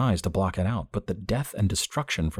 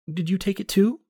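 put-on young woman June; 14 semitones higher than usual. A narrator's reading. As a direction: voice June high and dreamy. June voiced by narrator.

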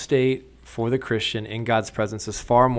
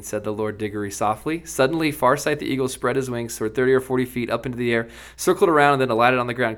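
story reading; 2 semitones higher than usual. A narrator's reading. Host reading C S Lewis to his co-hosts, lively storyteller voice. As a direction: bring the Narnia scene to life for listeners. Reads Narnia passage aloud.

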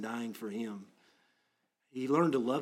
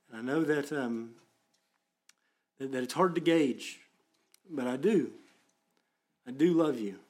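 impassioned confession; 4 semitones higher, 5 dB louder than usual. Acted. Preacher voicing his heartfelt confession.

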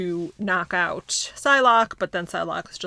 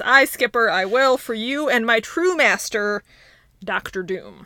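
put-on Scottish accent; 3 semitones higher, 4 dB louder than usual. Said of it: "it was very good when I was talking".

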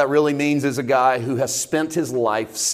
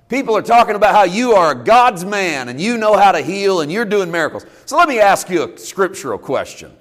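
imitating a scribe's sly, sarcastic challenge; butter him up with mock admiration, then pose the question; 2 semitones higher than usual. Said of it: "feel it dripping in sarcasm".

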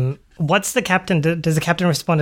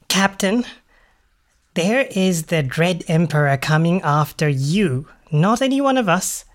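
urgent warning; 4 semitones higher than usual. Acted. Sparrow urgently warns the captain.

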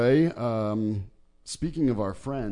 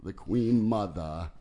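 wobbly elder British voice. Pretend. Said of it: "the wobbly elder British voice".

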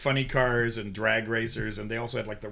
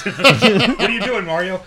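mock high silly voice; 6 semitones higher, 10 dB louder, slower than usual. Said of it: "you'd go".

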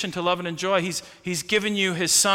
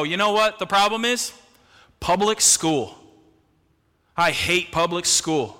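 mock angry complaint. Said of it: "be so angry and go".

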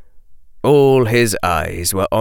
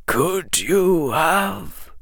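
put-on old wizard; 10 semitones higher, much slower than usual. A narrator's reading. Dumbledore voice, slow question.

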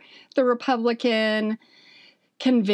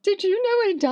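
quoting husband; 12 semitones higher, much faster than usual. Retold or imitated. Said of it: "He's like".

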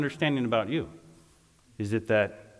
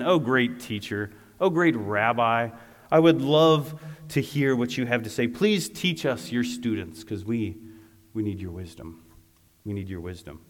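butter him up, over-sweet, trailing off; fawning flattery. Acted. Spies flattering the teacher to trap him, fawning.

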